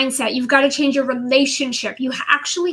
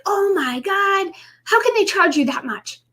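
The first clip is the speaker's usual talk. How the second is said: mock outrage; 6 semitones higher than usual. Outrage opening bills.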